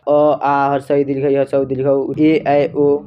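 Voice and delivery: अ, आ, हर्षई, दीर्घई, हर्षऊ, दीर्घऊ, ए, ऐ, ओ said one by one, clearly; teacher demonstrating vowel sounds; reciting vowels. Shown as a demonstration. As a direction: recite each vowel slowly and separately for pupils. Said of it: "स्वर वर्ण जौन होला".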